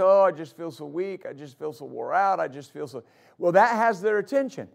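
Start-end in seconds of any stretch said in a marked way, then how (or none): 0.0-3.0 mock weak complainer. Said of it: "people that get up and they say".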